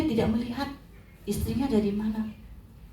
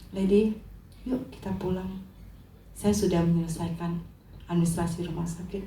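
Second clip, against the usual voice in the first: low, soft husband's voice; lightly acted calm, lowered and softened toward the end; gently reassuring; 4 semitones lower, 4 dB quieter than usual. Alex tells his wife to come home, gently reassuring.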